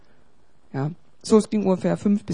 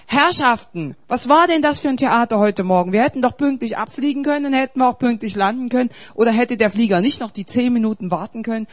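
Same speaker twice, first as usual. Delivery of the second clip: gespielter empörter Ärger; 4 dB louder than usual. Retold or imitated. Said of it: "weil mein Fleisch jetzt eigentlich sagt".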